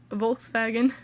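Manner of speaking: VOLKSWAGEN with a hint of German; German-tinged "Volkswagen", as FOLKS-vah-gen; slight German pronunciation. Real, not acted. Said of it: "a little bit of a German hint".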